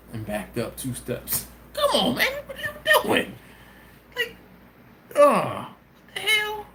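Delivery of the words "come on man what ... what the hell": laughing disbelief. Real, not acted.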